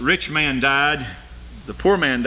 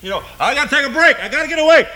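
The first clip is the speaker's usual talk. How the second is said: high, fast, rising plea to get away; mock plea for a break; 10 semitones higher, 4 dB louder, much faster than usual. Someone longing for a vacation, high hurried mock plea. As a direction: beg for a getaway in a put-on voice. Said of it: "Somebody said".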